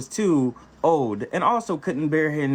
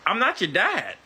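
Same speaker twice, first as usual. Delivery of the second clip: straight face; 3 semitones higher than usual. Retold or imitated. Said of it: "I said with a straight face".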